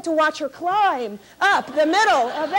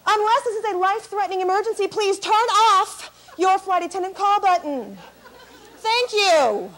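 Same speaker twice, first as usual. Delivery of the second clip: snippy flight attendant; 2 semitones higher than usual. Retold or imitated. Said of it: "now she has an attitude".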